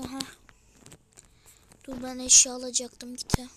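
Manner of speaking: talking while chewing gum. Real, not acted. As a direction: speak around a wad of gum. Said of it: "Sakız çiğniyorum". (sakız çiğneyerek)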